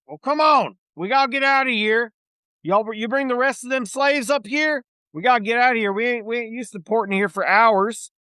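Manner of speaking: pirate captain scolding the rowboat crew; irritated pirate captain. Acted. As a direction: bark down at the boat, annoyed. Captain voice again.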